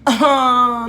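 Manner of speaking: high, drawn-out mock whine; child's protest. Pupil balking at spelling aloud, imitated protest. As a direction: imitate a reluctant child groaning oh.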